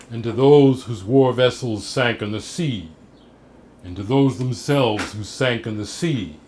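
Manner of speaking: declaimed epigraph, projected and measured; formal recital with pauses between phrases; poetry reading. Acted. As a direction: read it out like a solemn toast to the fallen. Reads poem's epigraph aloud.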